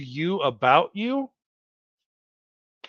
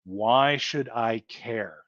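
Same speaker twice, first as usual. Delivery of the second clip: slow self-question; 5 semitones lower, 3 dB quieter, much slower than usual. Retold or imitated. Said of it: "you're gonna have to ask yourself".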